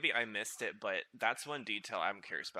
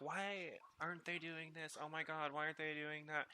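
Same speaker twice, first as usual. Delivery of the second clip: put-on kid frustration; 6 semitones higher, 6 dB quieter than usual. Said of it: "and being like".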